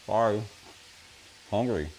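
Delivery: chewing while talking; mouth full. Real, not acted. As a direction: talk through a mouthful. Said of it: "crunching of my chips".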